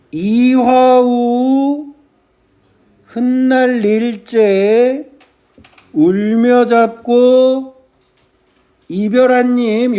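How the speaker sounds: slow sijo recital, phrase by phrase; measured verse reading. Shown as a demonstration. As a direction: draw out each foot, then pause. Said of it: "요렇게 읽겠죠".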